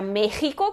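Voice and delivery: "México" said "Méjico" with throat friction. Shown as a demonstration. Teacher raising the students' doubt, throaty X. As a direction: rasp the X of "México" like Spanish J. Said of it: "tem o som de J".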